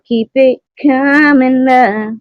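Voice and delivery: high, slow mock Irish lilt; a slow, high, half-hearted Irish accent; attempted Irish accent. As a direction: try on a clumsy Irish accent. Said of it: "Oh, I can't do Irish".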